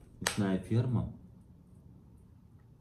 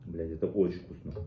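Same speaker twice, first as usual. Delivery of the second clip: chewing while talking. Real, not acted. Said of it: "Видите?".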